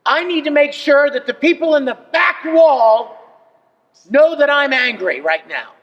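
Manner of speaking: angry stage actor, reach the back row; stage anger shout. Shown as a demonstration. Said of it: "biting these words off".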